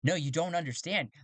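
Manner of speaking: desperate protest. Acted. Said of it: "Jito goes".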